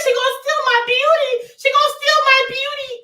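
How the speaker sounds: high loud fearful cry; hammed-up frightened wail; mock fear. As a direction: fake panic over her beauty. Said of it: "I'm scared".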